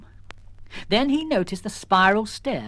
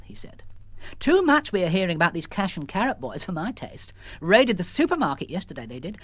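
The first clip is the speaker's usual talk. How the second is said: lightly voiced jeweller, odd word order; 4 semitones higher than usual. Peter Stone chatting to Missus Jones, lightly voiced. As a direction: gossip like a fussy shopkeeper.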